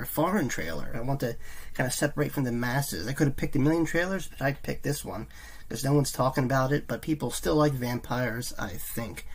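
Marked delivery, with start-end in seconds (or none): 3.1-9.3 wired on coffee. Real, not acted. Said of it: "I'm wired on coffee".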